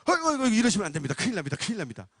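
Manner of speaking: hurried mock panic, starting high and loud then dropping; alarmed shaman. Shaman begging him to stop, imitated flustered alarm. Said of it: "무당이 놀래더라고요".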